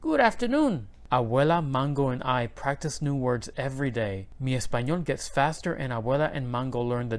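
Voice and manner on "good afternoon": high, loud parrot chirp. A narrator's reading. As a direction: mimic like a parrot. Parrot mimics greeting.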